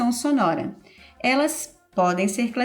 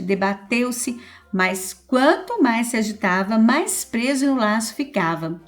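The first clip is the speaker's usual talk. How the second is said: louder storytelling voice for the fable; fable read aloud; 3 dB louder than usual. Acted. Teacher reading the fable of the rat and the lion to pupils, lively and loud. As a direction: tell it like a story to children.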